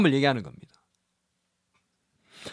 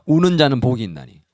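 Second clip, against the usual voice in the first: lead reading; 5 semitones lower, 3 dB louder than usual. Shown as a demonstration. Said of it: "따라하겠습니다".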